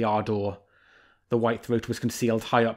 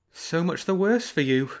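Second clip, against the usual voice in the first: sly fox; 6 semitones higher than usual. Acted. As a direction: play the fox, teasing the bear.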